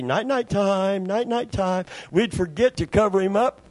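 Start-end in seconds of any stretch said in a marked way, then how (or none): 0.0-1.9 bedtime sing-song, retold. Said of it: "I'd say".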